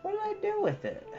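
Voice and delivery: ordinary talk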